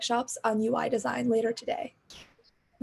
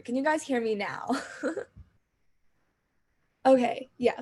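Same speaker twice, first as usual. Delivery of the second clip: usual speaking voice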